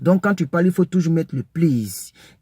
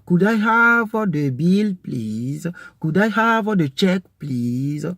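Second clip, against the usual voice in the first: polite customer; 3 semitones higher, slower than usual. Shown as a demonstration. Teacher acting a diner asking for the bill. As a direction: ask for the check nicely. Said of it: "modelling asking for the bill".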